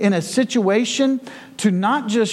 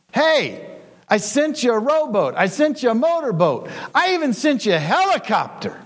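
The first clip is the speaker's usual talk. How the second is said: higher, lightly voiced patient God; a hint of God gently scolding; God replying; 7 semitones higher than usual. A narrator's reading. God answers the drowned man.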